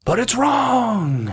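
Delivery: high, slow, far voice; high whiny voice. Pretend. Mock whiny punchline.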